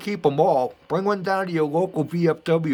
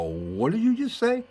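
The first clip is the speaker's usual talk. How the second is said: higher, incredulous retold question; stunned disbelief; 11 semitones higher than usual. Whipping around at the stranger, asking in disbelief. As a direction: replay the jolt of hearing it. Stunned reaction to Yeager's nephew.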